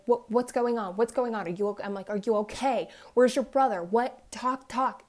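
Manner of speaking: retold burst of anxious, pressing questions; urgent worried questioning. Mother urging her upset daughter to talk, urgent.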